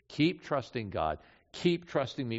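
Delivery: gentle reassurance. Acted. Jesus consoling disciples who will fail, gently reassuring.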